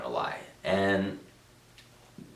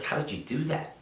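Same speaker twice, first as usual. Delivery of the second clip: put-on soft, higher-pitched Venezuelan accent; imitated Venezuelan accent; 8 semitones higher, 5 dB quieter than usual. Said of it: "he has a heavy accent".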